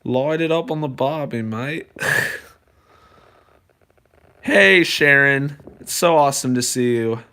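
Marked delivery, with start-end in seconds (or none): 0.0-1.9 casual put-on Aussie accent; mock Australian slang. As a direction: toss it off like a joking Aussie. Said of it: "that accent".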